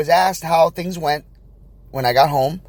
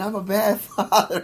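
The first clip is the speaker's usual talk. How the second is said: laughing through it; 6 semitones higher than usual. Real, not acted. Retelling feeling like a failure.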